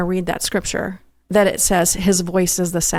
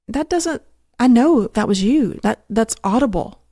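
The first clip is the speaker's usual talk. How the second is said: puzzled protest; 4 semitones higher than usual. Retold or imitated. Acts out questioning God about words.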